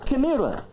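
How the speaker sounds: "chimera" said in place of camera, as a wrong example; silly mispronunciation. Shown as a demonstration. Dictionary warning a child about silly mistakes. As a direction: swap "camera" for "chimera" with a straight face. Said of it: "instead of camera".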